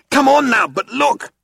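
high, loud urgent appeal. A narrator's reading. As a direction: drop the cheer and plead fast. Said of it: "less slowly, less brightly".

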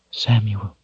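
soft, gentle call. A narrator's reading. Shota turns to her companion, gentle. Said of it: "she said gently".

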